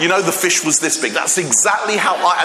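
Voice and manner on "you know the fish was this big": fisherman boasting. Retold or imitated. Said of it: "that's exactly how I would have said it".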